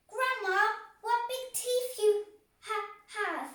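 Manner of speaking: high, loud alarmed cry. A narrator's reading. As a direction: cry out in growing fear. Girl alarmed at wolf's teeth.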